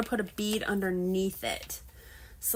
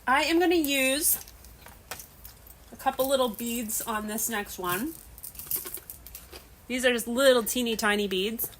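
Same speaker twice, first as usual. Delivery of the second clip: chewing while talking. Real, not acted. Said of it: "Sorry, I'm chewing ice".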